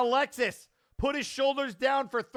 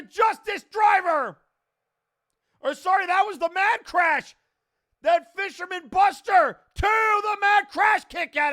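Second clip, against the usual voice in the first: excited call; 4 semitones higher, 3 dB louder than usual. Real, not acted. Calling a near-fall live.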